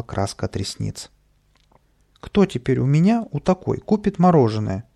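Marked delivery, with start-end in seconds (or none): 2.2-4.8 high, loud lamenting wail; горюет. A narrator's reading. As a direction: bemoan your ruined looks. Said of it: "горевала она". (горестно причитает, повысив голос)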